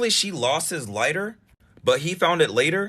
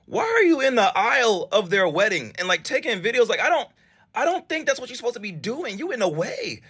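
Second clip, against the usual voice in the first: incredulous scolding; 5 semitones higher than usual. Real, not acted. Host scolds the absent makeup artist.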